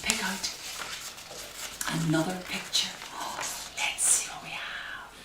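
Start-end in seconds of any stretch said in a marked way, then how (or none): 3.1-5.1 secretive excited whisper. Acted. Parent teasing the child with the bag, whispered.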